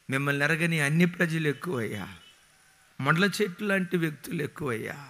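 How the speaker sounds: earnest pleading prayer. Acted. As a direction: plead with God aloud. Prays aloud before congregation.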